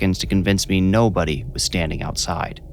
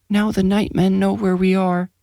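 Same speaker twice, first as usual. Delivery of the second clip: put-on high, hushed, dazed boy; eerie child voice; 12 semitones higher than usual. A narrator's reading. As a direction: say it like a child in a trance. Sleepwalking boy, fearful.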